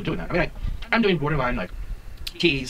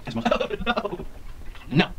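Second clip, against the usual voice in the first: tipsy giggle; 6 semitones higher, much slower than usual. Real, not acted. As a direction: giggle it out tipsily.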